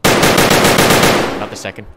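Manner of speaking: slow loud whisper. Real, not acted. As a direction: hiss it slowly under breath. Tense clear, loud whisper.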